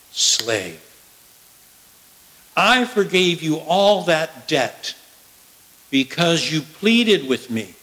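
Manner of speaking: a hint of a stern, wounded master; rebuking lord. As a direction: scold the servant who showed no mercy. Lord rebukes the wicked slave.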